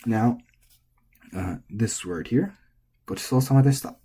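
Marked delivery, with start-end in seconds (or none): 3.1-4.0 gochisousama flat then a drop in deshita. Shown as a demonstration. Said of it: "This part is flat".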